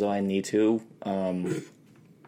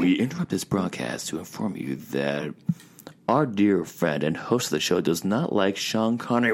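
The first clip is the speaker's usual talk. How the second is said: put-on old radio announcer; 5 semitones lower than usual. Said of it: "I am now hijacking".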